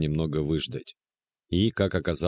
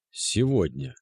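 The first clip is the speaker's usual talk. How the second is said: higher, hushed single word Сегодня; stunned repeat; 5 semitones higher, slower than usual. A narrator's reading. Narrator echoing the date to himself, stunned. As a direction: let Сегодня land as a shocked echo.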